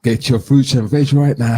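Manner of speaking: mock trader calling out; market trader call. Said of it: "that's market trader".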